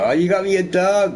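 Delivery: high, delighted mock-child squeal; happy kid. Kid thanks parents for the dog, acted high-pitched joy. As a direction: act overjoyed, pitch way up. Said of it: "you're so happy".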